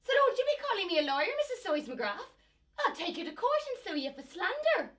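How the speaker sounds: indignant scolding. Acted. Housekeeper rebukes Seismograph.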